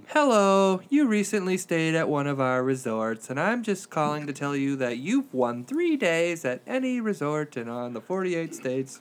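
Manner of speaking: bright, slowed pre-recorded sales voice; robocall lady. Retold or imitated. Imitating the pre-recorded resort lady, slow and bright. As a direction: read it like a canned resort robocall. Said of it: "it's the same lady every time".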